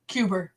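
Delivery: "Cuba" with an r on the end, like "Cuber"; r added at end. Shown as a demonstration. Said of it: "it's Lisa".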